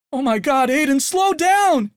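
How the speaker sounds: high, loud, slow panicked plea; panicked admonishing. A narrator's reading. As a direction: beg him to slow down. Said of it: "Cindy admonished".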